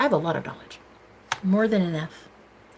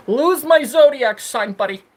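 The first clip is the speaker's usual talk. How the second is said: sassy dismissal; 3 semitones higher, 6 dB louder than usual. Acted. Telling trolls to leave, sassy brush-off. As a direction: shoo the trolls away with sass.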